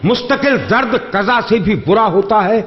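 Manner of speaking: measured, lingering verse delivery; poetry recitation. Acted. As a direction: recite each line slowly for effect. Repeats the couplet.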